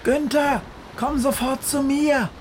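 very high, loud urgent shout; shouting against storm. A narrator's reading. Witch Befana screams to the crow against the storm. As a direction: yell it over a raging storm. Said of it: "schreit Befana gegen den Sturm an".

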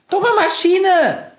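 very high, drawn-out mouse shriek; furious squeal; angry screech. A narrator's reading. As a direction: screech the insult slowly. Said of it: "kreischt sie".

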